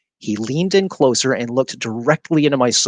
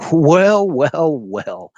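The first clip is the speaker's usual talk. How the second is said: Marty's smug greeting; 6 semitones higher, 6 dB louder, much slower than usual. A narrator's reading. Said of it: "said the only familiar voice".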